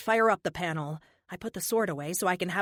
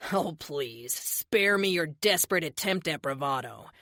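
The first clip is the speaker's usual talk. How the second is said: smug villain. Acted. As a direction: taunt her with lazy menace. Villain Erickson sneers.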